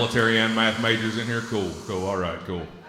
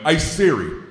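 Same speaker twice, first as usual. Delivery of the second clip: louder, higher redneck voice calling out to his phone; hillbilly yelling at Siri; 5 semitones higher, 3 dB louder than usual. Retold or imitated. Man at the doctor's office shouting at his phone. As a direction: bark it at the phone like he's fed up. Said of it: "and went".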